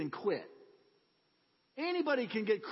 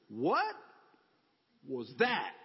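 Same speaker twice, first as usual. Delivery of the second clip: stunned question; 6 semitones lower, much slower than usual. Retold or imitated. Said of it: "I said to Jesus".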